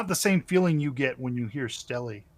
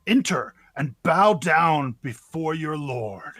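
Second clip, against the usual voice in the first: dark lord; 4 dB louder than usual. Acted. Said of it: "you all hear it say".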